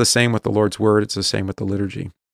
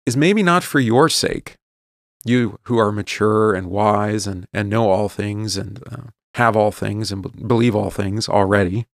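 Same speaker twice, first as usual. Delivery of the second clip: slow, dry sarcasm; sarcastic. Real, not acted. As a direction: lay on gentle sarcasm. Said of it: "I'm being a little sarcastic there".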